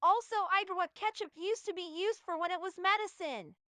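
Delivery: high-pitched, loud yelled delivery. Reading out what ketchup was used for as medicine: yelling. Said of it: "you didn't have to yell it at us".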